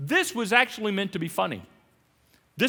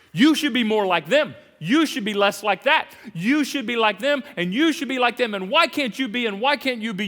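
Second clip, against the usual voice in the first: louder, preachy finger-wagging judge; judgmental nagging; 3 semitones higher, 6 dB louder than usual. Retold or imitated. Preacher mimicking a judge who nags, loud. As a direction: nag them like a judge.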